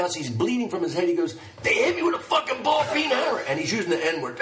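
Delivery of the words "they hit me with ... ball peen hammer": retold scream. Bleeding man screaming retold.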